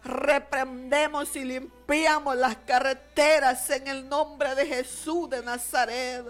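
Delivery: impassioned Pentecostal intercession, punched phrases; forceful prayer. Real, not acted. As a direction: pray with authority against the enemy. Prays forcefully against the enemy.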